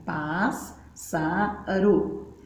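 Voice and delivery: syllable by syllable, "Pás, sa, ro", pausing between each; sílaba por sílaba. Shown as a demonstration. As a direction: separate the syllables for children. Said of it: "Tem que separar, falar assim". (sílaba por sílaba, com pausas)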